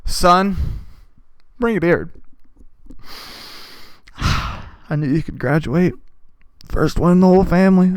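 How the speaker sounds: a hint of a proud, choked-up father; lightly voiced dad bursting with pride. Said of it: "Could you imagine the man who goes".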